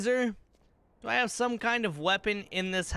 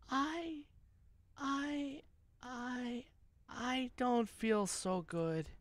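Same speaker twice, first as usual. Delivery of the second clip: 1 mock fading away; 3 semitones higher, 8 dB quieter, much slower than usual. Fake fading at end of stream.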